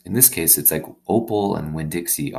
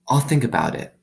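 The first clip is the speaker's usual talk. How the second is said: put-on higher, earnest little girl voice; a girl confiding in her new dog; young girl Opal; 8 semitones higher, 3 dB louder than usual. Opal confiding in her dog, higher girlish voice.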